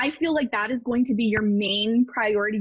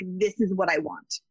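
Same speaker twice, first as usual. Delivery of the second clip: slow, low, settled statement; clear decision; 4 semitones lower than usual. Shown as a demonstration. Psychic showing the client a clear, slow decision. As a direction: say it like your mind is made up. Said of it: "you don't get really clear on".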